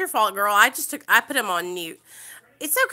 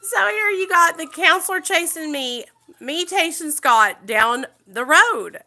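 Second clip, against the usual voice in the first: high, loud, half-laughing cry; laughing shout; 8 semitones higher, 8 dB louder than usual. Real, not acted. Retelling the counselor chasing her, laughing out loud. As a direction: burst out laughing at the chase. Laughing at dramatic chase story.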